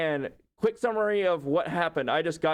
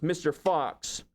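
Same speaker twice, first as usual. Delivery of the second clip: degrading. Retold or imitated. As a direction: talk down to him, dragging out his name. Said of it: "in a really degrading way".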